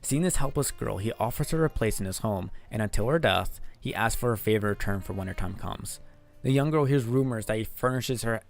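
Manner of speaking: steady, measured voiceover read; story narration. Acted. Streamer reading a creepy story script, narration voice.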